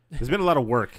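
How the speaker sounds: slipping into a British accent mid-sentence; an unplanned British lilt. Real, not acted. Chatting with friends, suddenly in a British accent. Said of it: "Somehow became a British accent".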